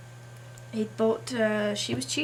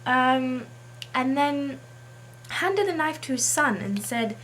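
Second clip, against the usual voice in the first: put-on English accent; 3 semitones higher than usual. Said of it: "I've decided today to do an English accent".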